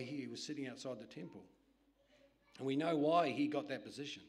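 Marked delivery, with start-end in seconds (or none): 2.6-4.2 forceful, loud sermon delivery, building; loud preaching. Acted. Preacher reading Jesus' reply to the disciples, loud and forceful. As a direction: proclaim it to the congregation.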